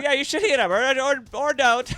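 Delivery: high, loud 1930s gangster, see; a wiseguy tough talking, see; old-timey voice. Pretend. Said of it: "The old-timey voice".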